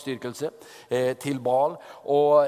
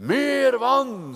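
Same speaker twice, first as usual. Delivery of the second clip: firm order; 7 semitones higher, 4 dB louder than usual. Acted. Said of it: "sier han".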